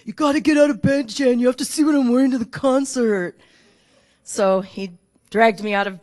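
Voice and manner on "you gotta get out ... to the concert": louder, higher, fast excited call; excited yelling son. Retold or imitated. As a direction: burst in hyped and loud. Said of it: "he's screaming at me".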